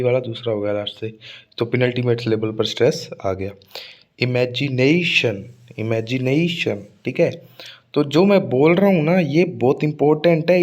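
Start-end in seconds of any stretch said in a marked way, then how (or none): 4.2-6.8 इमेजिनेशन very slowly, with a long "ने"; demonstrative stressed pronunciation. Shown as a demonstration. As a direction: draw out the "ने" in इमेजिनेशन, falling on "शन". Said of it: "ऐसे pronounce करके बता रहा हूँ". (इमेजिनेशन में "ने" पर खींचकर ज़ोर)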